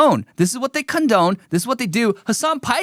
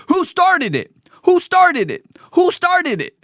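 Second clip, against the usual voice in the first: put-on higher, whiny childish repeat; toddler whine; 10 semitones higher, 3 dB louder than usual. Mocking the protester as a toddler, high whiny voice. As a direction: sing it out like a sulky toddler. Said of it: "This is the argument of toddlers".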